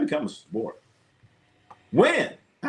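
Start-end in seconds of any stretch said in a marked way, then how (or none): 1.9-2.3 incredulous high. Real, not acted. Disbelief wrestling is a sport.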